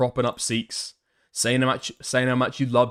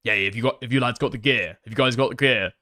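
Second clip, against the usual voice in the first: Tommy Robinson; 4 semitones lower than usual. Retold or imitated. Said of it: "he is always asking".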